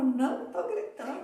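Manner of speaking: denial said through a laugh; laughing mock denial. Joking about denying that she is shouting at the other person, laughing. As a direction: laugh while insisting you're not yelling. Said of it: "Eu falo".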